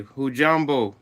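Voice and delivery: "Hujambo" said in Swahili, hu-JAM-bo with a falling end; Swahili greeting. Shown as a demonstration. Streamer shares the greeting from his childhood language, Swahili "Hujambo". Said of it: "we'd say".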